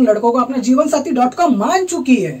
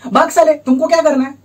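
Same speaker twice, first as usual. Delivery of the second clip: irritated retort; 5 semitones higher, 3 dB louder than usual. Retold or imitated. Acted retort to prying watchman.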